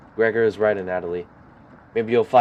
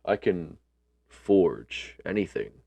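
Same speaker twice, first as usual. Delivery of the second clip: blacksmith voice; 2 semitones lower, much slower than usual. Acted. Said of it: "he says".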